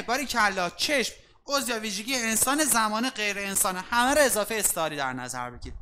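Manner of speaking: usual speaking voice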